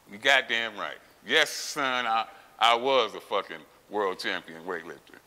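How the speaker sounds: loud, emphatic confirmation, punching each claim; retold emphatic comeback, leaning on "was"; proud retort. Patient answering a young doctor who recognized him, proud retort.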